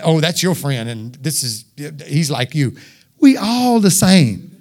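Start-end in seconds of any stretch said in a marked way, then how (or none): 0.0-2.8 lower, softer, slow mock gossip; mock cliquish talk. Preacher mimicking cliquish churchgoers, quiet and slow. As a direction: sneer it under your breath. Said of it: "Don't make it that".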